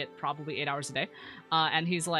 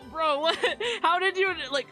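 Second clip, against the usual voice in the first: surprised; 11 semitones higher, 4 dB louder than usual. Retold or imitated. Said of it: "It's like".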